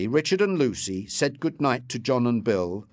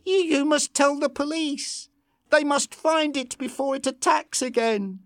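high, urgent, stammered plea; frightened, pressing them to act; trembling. A narrator's reading. Farm woman urging the couple to call police, afraid. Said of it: "beginning to tremble".

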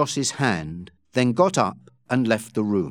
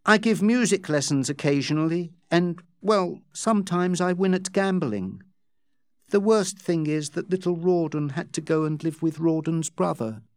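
higher, lightly acted woman's voice, softening to a sigh; lightly voiced plaintive Becky; 5 semitones higher than usual. Becky telling Joss her troubles, lightly plaintive.

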